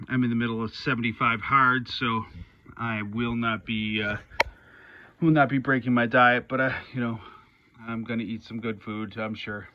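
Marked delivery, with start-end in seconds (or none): 5.2-9.7 out of breath mid-workout, panting. Real, not acted. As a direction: talk between heavy breaths. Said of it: "sorry I'm out of breath".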